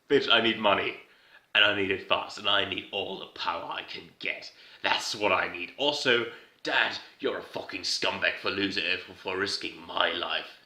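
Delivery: hammed-up hard-nosed insistence; blunt demand. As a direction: lay down demands to your father. Acting out Lex's hard-nosed conclusion.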